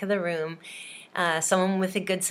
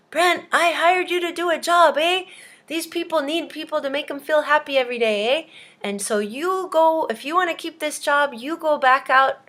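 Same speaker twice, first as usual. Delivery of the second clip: hammed-up angry scolding, higher and louder; mad Canadian boss; 6 semitones higher, 5 dB louder than usual. Canadian boss scolding Brent for slacking, mock mad. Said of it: "he got really mad at him".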